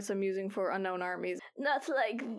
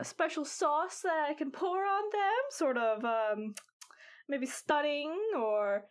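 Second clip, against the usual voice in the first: put-on old lady voice. Granny Foam voiced by GM.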